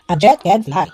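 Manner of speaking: A jet can fly said flat and falling to a full stop; falling period tune. Shown as a demonstration. Mom shows her reader a statement, falling to a stop. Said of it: "But it's a period".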